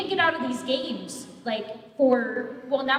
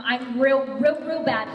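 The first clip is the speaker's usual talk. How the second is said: leaning on each real, a touch louder; emphatic real bad; 5 dB louder than usual. Real, not acted. Admitting she is bad at the game, emphatic. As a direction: stretch out the repeated "real". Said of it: "No, mm-mm".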